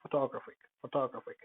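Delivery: "photographic" with the stress on TOG, the second o; second-syllable stress. Shown as a demonstration. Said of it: "second o, that is, uh, not the fo".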